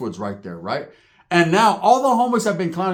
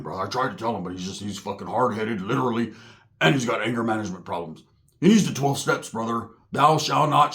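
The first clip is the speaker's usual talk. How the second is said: mild Roach voice; 7 semitones lower, 4 dB quieter than usual. Retold or imitated. Roach voiced, rambling on meth.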